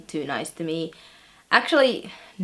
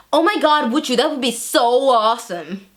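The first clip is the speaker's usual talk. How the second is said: put-on higher, louder teenage gushing; gushing excitement; 5 semitones higher, 5 dB louder than usual. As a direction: gush as if thrilled by the offer. Gushing student's reply, acted.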